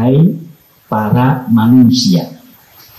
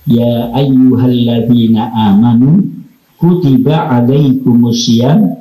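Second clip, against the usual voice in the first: Quran recitation. Acted. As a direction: recite the verse with reverence. (lantunan ayat Al-Quran)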